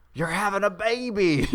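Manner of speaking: a hint of high ghostly voice; ghost woman. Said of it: "the ghost of a woman appears in the back seat and is like".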